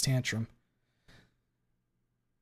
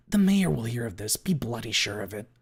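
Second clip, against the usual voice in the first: threat; 5 dB louder than usual. Acted. Glenn threatening Ripley up close.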